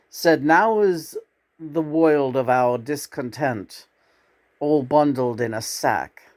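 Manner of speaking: measured recital with deliberate pauses; poetry recitation. Acted. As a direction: recite the verse line by line. Recites a poem.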